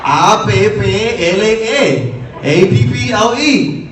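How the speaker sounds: slow spelled A P P L E; spelling it out. Retold or imitated. Mom spelling out apple for her son, deliberate. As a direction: spell each letter deliberately. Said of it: "rolling your P's".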